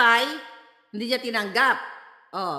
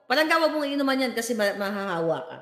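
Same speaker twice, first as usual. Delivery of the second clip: tender warning to partner; 4 semitones lower, faster than usual. Retold or imitated. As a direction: gently warn your partner. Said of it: "Ano sabi mo sa jowa mo?". (malambing na paalala sa jowa, humihina)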